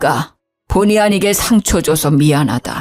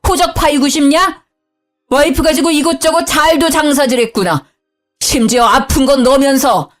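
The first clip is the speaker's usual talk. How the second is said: higher, raging shout at wife and son; furious father-in-law yelling; 5 semitones higher than usual. Acted. Father-in-law shouts at his wife and son, high and furious. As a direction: scold them like an enraged father. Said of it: "소리를 빽 지르더군요".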